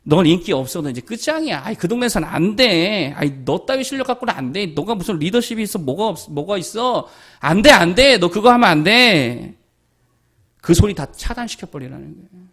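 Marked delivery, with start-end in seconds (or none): 0.0-9.5 mocking voice of the world; the world's put-down. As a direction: sneer at the listener as the doubting world. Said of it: "세상이 뭐라 그럽니까?".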